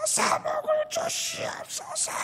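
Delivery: high, slow, thin pleading prayer; mock pleading prayer. Preacher mocks a prayer for money, in a high slow whine. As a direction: beg like a greedy child for money.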